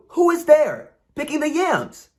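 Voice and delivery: high, otherworldly question; a sprite's eerie challenge; fairy voice. Acted. Fairy challenges the wife among the yams, high and eerie.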